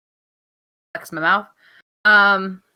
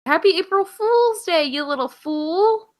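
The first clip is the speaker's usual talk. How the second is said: sing-song higher teasing greeting; 5 semitones higher, slower than usual. Pretend. Co-host offering a silly holiday greeting, teasing. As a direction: drag out the taunt, pitched up.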